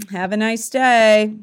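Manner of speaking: sarcastic sweetness, slowly; snide farewell. Retold or imitated. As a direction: drag it out with a sarcastic edge. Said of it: "didn't like the tone that I said it in".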